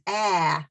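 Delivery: Ah with the mouth wide open; open vowel. Shown as a demonstration. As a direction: open the jaw on Ah. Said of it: "my mouth is open".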